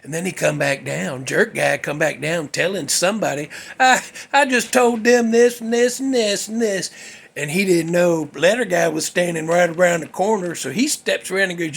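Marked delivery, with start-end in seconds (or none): 3.8-6.9 higher, rattled-off retelling of a tattler; mock boasting. Jerk guy telling somebody what he reported, mock boasting.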